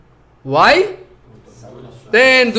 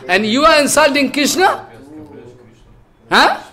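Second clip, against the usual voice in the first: indignant outburst; 4 semitones higher than usual. Acted. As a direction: scold them for insulting Krishna. Balaram furious at Krishna insulted.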